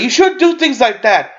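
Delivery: high, slow, showy disapproval; put-on righteous reproach; mock public scolding. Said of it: "he's like whispering to me".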